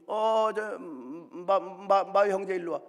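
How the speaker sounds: elder shouting across to the brothers; calling out. Acted. Neighbour elder calls the brothers.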